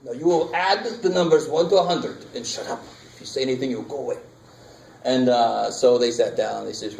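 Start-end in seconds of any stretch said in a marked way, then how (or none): 0.0-4.2 lightly voiced schoolteacher ordering kids to sit; mock strict teacher. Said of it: "and he said".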